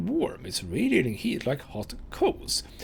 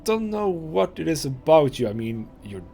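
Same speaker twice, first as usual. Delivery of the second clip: lightly voiced tough girl, awkwardly tender. Annah admitting to the player she has feelings, lightly voiced and awkward. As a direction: confess it awkwardly, like a girl who's all prickles.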